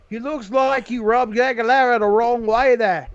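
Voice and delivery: put-on English accent drifting into Australian; hammy faux-English that sounds Australian; bad English accent. Host imitating Bisping on Aguilera, bad English accent. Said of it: "Why is your English accent Australian?".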